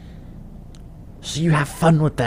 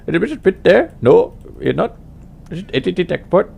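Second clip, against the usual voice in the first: higher, louder, fast puzzled questions; imitated confused telemarketer; 7 semitones higher, 5 dB louder, faster than usual. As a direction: stumble through the caller's script. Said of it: "You know".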